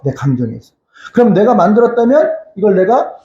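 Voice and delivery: ordinary talk, nothing marked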